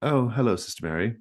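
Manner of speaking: high surprised widow greeting; sweetly startled hello; Stackpole greeting. Acted. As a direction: widow surprised to see the nun. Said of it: "She said".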